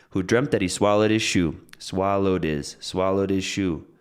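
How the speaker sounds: "his" weakened and linked onto "swallowed"; reduced "his". Shown as a demonstration. Teacher shows how subtle it is, "his" reduced and linked. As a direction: stress "swallowed" and "shoe", slipping "his" in between. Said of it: "Did you hear his?".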